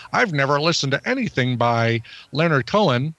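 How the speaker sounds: mock voice of a clueless listener; lightly put-on listener voice; impersonated listener. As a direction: play an unflattering version of a listener. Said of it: "such flattering impersonations of the listener".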